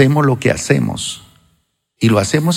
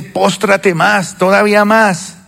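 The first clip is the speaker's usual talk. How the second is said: commanding voice of the Lord; 7 semitones higher, slower than usual. Retold or imitated. Lord's voice commanding bow lower.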